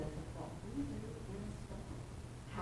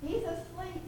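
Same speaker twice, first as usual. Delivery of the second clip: higher, raised call; yelled reply; 11 semitones higher, 5 dB louder than usual. Retold or imitated. Disciple telling the others Jesus sleeps, raised yell. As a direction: call out across the deck. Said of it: "someone else yells".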